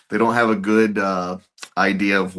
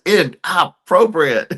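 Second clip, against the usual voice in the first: high, loud mock scolding, stretched out; hammed-up slow yell of a mom; imitated mom's yell; 10 semitones higher, 6 dB louder, slower than usual. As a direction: give every syllable its own weight, scolding. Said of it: "she just".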